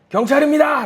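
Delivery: high, loud call through the door; announcing police officer. Acted. Officer announcing himself after knocking, loud call. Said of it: "누군가 밖에서 노크를 쿵쿵쿵쿵 하는 거예요".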